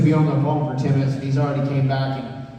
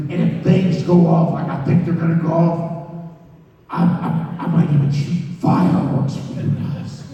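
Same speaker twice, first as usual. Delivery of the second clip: rough, emphatic boss impression, punched words; hammed-up, forceful boss voice; Vince McMahon; 3 semitones higher, 5 dB louder than usual. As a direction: imitate a grandiose promoter making a promise. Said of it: "That was Vince McMahon who just called me".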